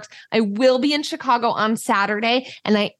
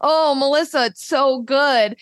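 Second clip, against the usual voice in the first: gloating taunt; 4 semitones higher than usual. Retold or imitated. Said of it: "I would eat my hot dog and go".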